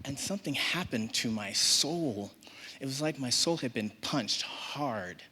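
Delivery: usual speaking voice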